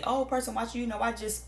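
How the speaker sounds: hammed-up insincere devotion; fake sweet talk. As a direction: lay on phony love thick. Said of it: "come to you and say".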